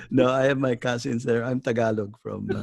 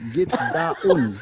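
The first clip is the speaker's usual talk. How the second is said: firm command in Filipino English; Filipino accent; 4 semitones higher, 6 dB louder than usual. Retold or imitated. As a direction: order it in a Tagalog accent. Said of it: "There is no daon".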